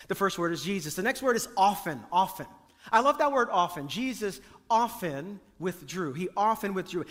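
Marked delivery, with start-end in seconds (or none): 3.9-6.1 "often" stressed as the key word. Shown as a demonstration. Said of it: "the emphasis is on the word often". 6.1-7.1 "often" given the main emphasis; stress on often. Shown as a demonstration. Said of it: "the emphasis is on the word often".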